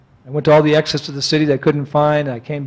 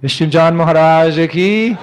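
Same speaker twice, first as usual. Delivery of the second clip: louder ringing cry; devotional call; 2 semitones higher, 4 dB louder than usual. Acted. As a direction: hail the teacher's name.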